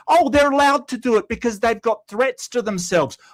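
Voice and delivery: scornful imitation of a chat excuse; mocking quote. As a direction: parrot the viewer's excuse with contempt. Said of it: "You're now saying".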